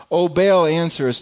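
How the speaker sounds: loud calling plea to Baal; shouted. Acted. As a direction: call out loudly to a silent god. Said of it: "they shouted".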